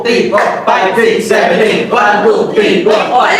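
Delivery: rhythmic count-in called to the dancers. Real, not acted. Coach counting the beat for dancers, steady rhythmic chant.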